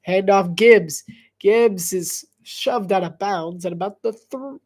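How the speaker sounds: lively sportscaster call of the play; play-by-play voice building to an excited "boom"; play-by-play commentary. Acted. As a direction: call the run like a broadcaster.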